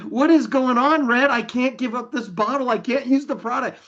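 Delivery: half-joking alarm; mock exasperated. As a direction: play up the panic of losing the bottle. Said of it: "But I'm like".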